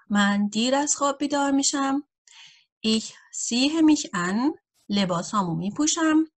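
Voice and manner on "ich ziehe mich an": each word laid out slowly for learners; slow dictation German. Acted. Teacher reading an example sentence to beginners, slowly. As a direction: read it out slowly and clearly for beginners.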